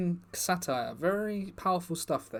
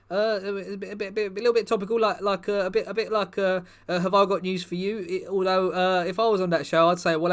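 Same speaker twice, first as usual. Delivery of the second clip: footballer character, a bit higher and louder, rambling; lightly voiced footballer persona; 4 semitones higher, 4 dB louder than usual. Footballer persona chats to the comedy crowd, lightly voiced, eager. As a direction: play the bumbling star footballer, eager and chatty. Performer plays the Park Chu-young persona.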